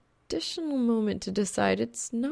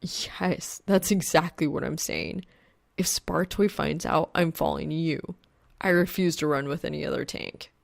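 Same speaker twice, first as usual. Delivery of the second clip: blurted in exasperation; exasperated blurt; 2 semitones lower than usual. Acted. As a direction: blurt it out, fed up. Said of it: "Exasperated, he blurts".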